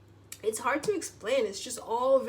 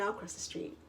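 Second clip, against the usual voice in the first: whispered giving in; 6 dB quieter than usual. Retold or imitated.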